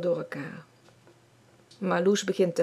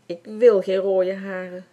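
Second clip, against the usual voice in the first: slow tearful plea; upset boy sobbing to mum about his red hair; 7 dB louder than usual. Acted. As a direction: push it out through tears, a hurt boy. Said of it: "snikt hij".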